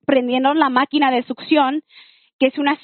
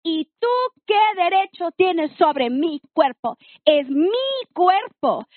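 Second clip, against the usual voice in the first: retold fury at the boyfriend, much higher and slowed; fierce angry outburst; 4 semitones higher than usual. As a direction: defend your body like a lioness. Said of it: "salió la leona y me dio un coraje".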